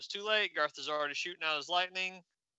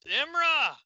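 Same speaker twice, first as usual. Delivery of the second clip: high, loud anguished cry of a name; scream; 12 semitones higher, 6 dB louder than usual. Acted. Garth screams as Imra is hit, loud high cry. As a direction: scream her name in shock. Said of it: "Garth screams".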